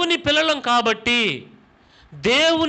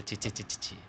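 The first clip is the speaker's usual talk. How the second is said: soft unvoiced tutting; tut-tut under your breath in disgust; disapproving tsk; 13 semitones lower, 18 dB quieter than usual. Pastor mimics a disgusted church member, unvoiced tutting. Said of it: "మీరేమంటారు తెలుసా".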